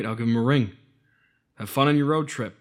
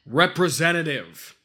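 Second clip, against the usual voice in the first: slow over-enunciated; 5 semitones higher, slower than usual. Real, not acted. Repeating to phone menu bot.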